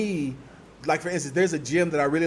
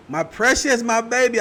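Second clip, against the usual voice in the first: gushing; 7 semitones higher, 5 dB louder than usual. Real, not acted. Gushing over her daughter.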